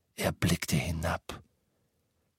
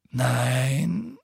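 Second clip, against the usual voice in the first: groan; 4 semitones higher than usual. A narrator's reading. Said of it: "stöhnte er".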